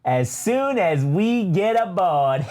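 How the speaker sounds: high, slow prim droid voice; Triple Zero voice. Retold or imitated. The droid answers B T in a high, slow purr. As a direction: purr it like a fussy butler droid. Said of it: "and he says".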